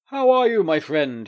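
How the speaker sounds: loud, high, cheery hello; hearty greeting. Acted. The Doctor greeting the lawyer at his door, hearty and loud. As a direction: burst in with a big friendly welcome. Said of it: "he said, finding the lawyer".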